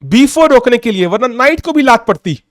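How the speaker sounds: a lightly voiced fed-up Kasparov groaning about his opponent; exasperated Kasparov. Kasparov grumbling about the pesky opponent, lightly voiced and exasperated. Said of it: "कस्पारोव कहता है".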